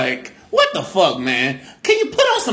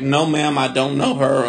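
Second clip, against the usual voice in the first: polite; 8 semitones lower than usual. Retold or imitated. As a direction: answer the judge meekly. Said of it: "but I was like".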